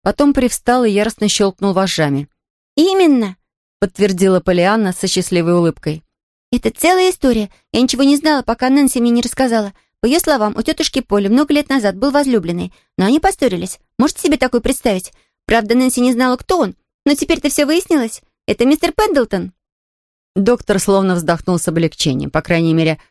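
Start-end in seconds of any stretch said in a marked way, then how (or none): 2.8-3.4 put-on higher, quick girl's voice bursting to tell; excited little girl. A narrator's reading. Pollyanna confirms happily. 6.5-19.5 put-on higher, quick girl's voice bursting to tell; excited little girl. A narrator's reading. Pollyanna tells the story.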